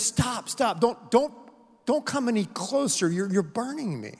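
a ghost begging the bright angel to back off; pleading ghost. Acted.

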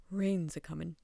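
put-on low, gruff-tempered old man; old man's grumble. A narrator's reading. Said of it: "the man grumbled stubbornly".

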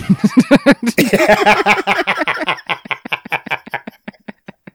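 long, high peal of laughter; real high laugh, slowly dying away. Real, not acted. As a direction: burst out laughing and let it run on. Laughs after Gordon Ramsay comparison.

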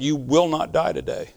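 almost voiceless words, but sure; barely spoken command. Retold or imitated. Husband to his collapsed wife, a hushed firm command. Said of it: "I could barely talk".

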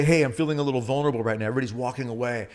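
fast, mock self-pitying; a sarcastic parody of weakness; mock whiny Jesus. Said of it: "He doesn't say".

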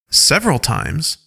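Several times? with a questioning rise; puzzled echo, lift the end; confused question. Acted. Alpha Equar confused, asking back Several times?. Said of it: "Alpha Equar looks confused".

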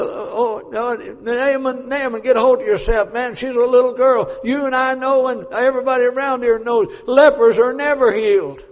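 king scoffing at Naaman's hope; mock scolding. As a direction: chide Naaman as foolish.

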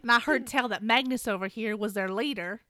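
hammed-up Southern warrior; Southern accent. Shen Yun accusing Alec, a light Southern accent. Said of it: "Shen Yun is gonna be played by myself".

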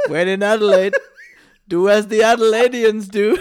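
mock-wise saying, giggling; laughing mock proverb.

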